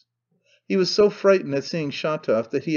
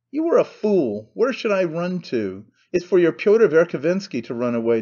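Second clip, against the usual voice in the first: indignant, with raised pitch; indignant retort; 3 semitones higher, 3 dB louder than usual. Acted. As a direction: throw the accusation back, exasperated. Acted quarrel at the window.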